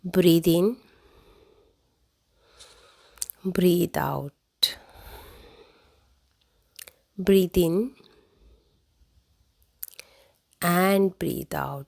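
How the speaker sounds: slow, measured breathing cues with long pauses; guided breathing. Real, not acted. Healer leads listeners in breathing before meditation, guided breathing. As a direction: draw out each breath cue, leaving long silences.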